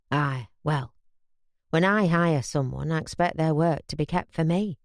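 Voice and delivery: a hint of a stern, tipsy employer; stern drunk boss. Reg scolds Bobby, drunk.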